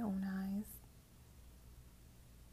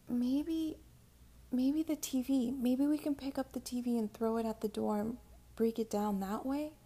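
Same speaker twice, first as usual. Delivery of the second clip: urgent, higher and louder; desperate; 4 semitones higher, 5 dB louder than usual. Acted. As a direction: grab at a panicked idea. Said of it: "I said, thinking desperately".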